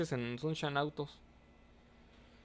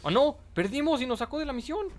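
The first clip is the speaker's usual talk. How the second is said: high, loud cry of dismay; dismayed shout; 9 semitones higher, 4 dB louder than usual. Real, not acted. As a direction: yell as the mission fails. Mission failed suddenly. (grito alto de decepción al perder la misión)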